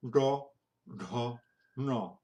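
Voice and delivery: exaggerated Indian retroflex DA series; hammed-up Indian accent on each syllable; mock Indian accent. Teacher showing how people mock Indians, exaggerated Indian accent. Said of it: "make fun of an Indian".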